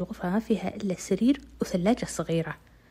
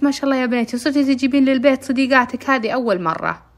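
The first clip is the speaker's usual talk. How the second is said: pleased mother; 5 semitones higher, 8 dB louder than usual. Retold or imitated.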